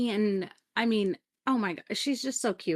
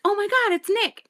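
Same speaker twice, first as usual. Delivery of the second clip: much higher, louder thrilled cry; excited recognition; 11 semitones higher, 5 dB louder than usual. Retold or imitated. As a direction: squeal with joy at spotting her brother. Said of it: "she's like".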